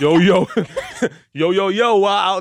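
very slow, loud, drawn-out put-on New York accent. Acting out how someone back from New York might greet you: mock New York accent. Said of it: "you don't walk up to me being like".

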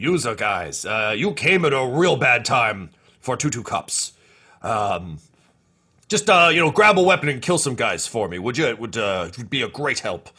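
stoned, drugged-up crime boss voice. A crime boss with a mountain of spice greets the intruders, high on spice. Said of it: "he's got just a mountain of spice that he's clearly been working his way through. And as you kind of kick out the vent to get the drop on him, you just see him like firing grenades off the balcony / h".

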